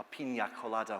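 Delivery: "pina colada" said as peenya colada; Spanish-style "pina colada"; Spanish pronunciation. Shown as a demonstration. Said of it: "I always, always say".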